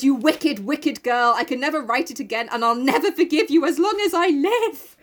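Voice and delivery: retold outrage, rising in pitch towards the end; hammed-up anger; mock furious scolding. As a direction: build to a dramatic vow. Jo rages at Amy.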